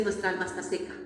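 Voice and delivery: soft, low restatement; quiet quote. Acted. Preacher quietly repeating the verse, soft. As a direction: murmur the verse back.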